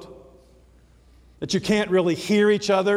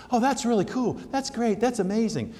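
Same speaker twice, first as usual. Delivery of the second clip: higher, light, tossed-off compliments; casual praise; 5 semitones higher than usual. Acted. Preacher showing everyday misuse of the word, casual praise. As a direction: toss it off like everyday approval.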